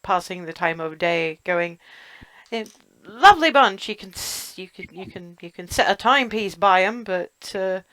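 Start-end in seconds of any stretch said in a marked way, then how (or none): 2.5-7.8 lightly voiced chatty old innkeeper; a hint of a gruff barkeep. Innkeeper chats with the guests.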